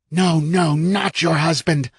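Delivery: sinister inner voice. A narrator's reading. Terrible inner voice.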